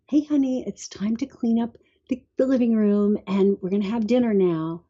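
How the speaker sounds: heartfelt, gentle request. Retold or imitated. Mom asking her kid to clean up for dinner, gentle and heartfelt. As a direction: coax a child kindly, from the heart. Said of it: "with that feeling in my heart".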